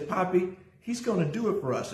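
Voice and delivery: put-on sing-song reassurance from a toddler; a hint of a child's confident promise; little daughter. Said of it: "and says".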